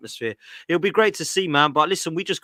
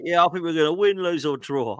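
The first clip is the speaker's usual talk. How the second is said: mock pundit answer; 4 semitones higher than usual. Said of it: "What do you think today, mate?".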